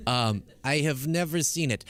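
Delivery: put-on light Russian accent; a hint of a Russian accent; Melania Russian accent. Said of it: "I just do a Russian accent ... trying to do Melania".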